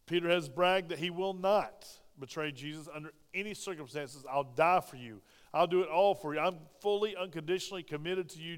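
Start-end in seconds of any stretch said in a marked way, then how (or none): 4.3-8.6 bragging vow. Acted. Peter bragging, acted.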